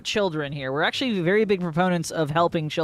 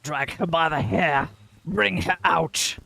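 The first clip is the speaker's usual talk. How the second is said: ghostly voice. Acted. Ghost voice urging cruelty.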